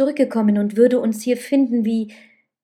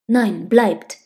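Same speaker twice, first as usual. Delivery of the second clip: a short, louder call; 6 dB louder than usual. A narrator's reading. Man halts the woman approaching the bed, calling out. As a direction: call out to stop someone. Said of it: "rief er".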